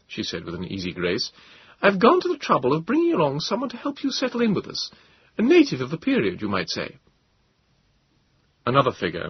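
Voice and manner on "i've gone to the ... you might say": higher, commanding officer's voice; higher voice of a commanding captain; Captain Bond, commanding. A narrator's reading. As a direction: state your orders as a firm officer, pitched higher.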